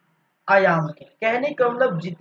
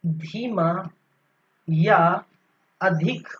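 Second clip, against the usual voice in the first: dictating notes. Shown as a demonstration. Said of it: "इसको हम क्या लिख सकते हैं".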